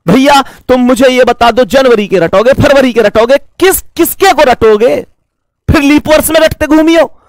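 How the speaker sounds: mock a student for rote learning; mock exasperated retort. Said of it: "मैं कहता हूं".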